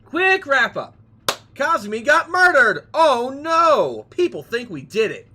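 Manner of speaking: high, loud rushed recap; excited recap. Real, not acted. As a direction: blurt out the story so far.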